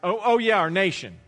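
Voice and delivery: put-on piety, tacked on; mock pious. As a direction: feign sudden piety, as if just remembering. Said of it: "as if to make them sound real pious".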